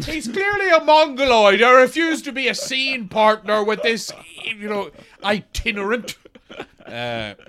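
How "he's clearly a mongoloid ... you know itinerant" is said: pompous improv tantrum; mock indignant refusal. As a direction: declare your refusal with hammed-up outrage.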